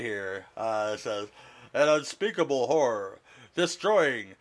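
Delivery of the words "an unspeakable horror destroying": a lightly done epic trailer announcer; dramatic movie trailer read, only slightly put on. Shown as a demonstration. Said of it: "this is my best attempt at a tra-, the trailer guy voice".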